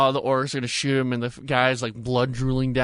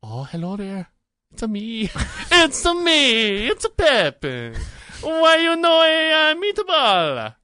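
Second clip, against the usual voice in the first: high, hammed-up mock Italian accent; Pippin; 11 semitones higher, 6 dB louder, slower than usual. Asked what accent he had, absurd mock Italian. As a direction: build into a loud, stretched cartoon Italian accent. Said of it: "That's how he sounds".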